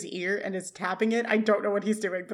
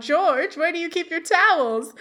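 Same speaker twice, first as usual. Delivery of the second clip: higher-pitched imitated call; woman calling out; 7 semitones higher, 4 dB louder than usual. Imitating a woman calling George from the house, calling out high. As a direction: call it out lightly like someone in another room. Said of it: "we hear a woman's voice call out".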